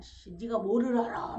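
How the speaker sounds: irritated snap at the wife; imitating a husband losing his temper; husband snapping back in a mock temper. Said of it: "막 승질을 막 내죠".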